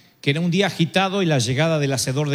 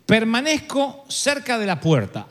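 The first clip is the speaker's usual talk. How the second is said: poem recital; 6 semitones higher than usual. Acted. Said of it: "decía más o menos así".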